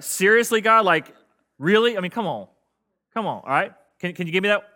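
pleading, fed-up demo for the congregation; exasperated disbelief. Shown as a demonstration. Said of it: "that's what you're gonna do".

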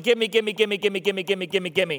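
rapid-fire greedy begging, starting high and loud; a hint of a nagging, insatiable body; demanding body. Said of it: "Your body's saying".

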